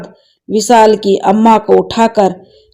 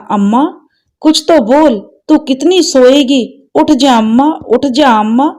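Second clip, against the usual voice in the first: put-on higher boyish voice begging; a child trying to wake his mother; pleading child; 5 semitones higher than usual. Son begs his dead mother to wake, higher pleading boy voice.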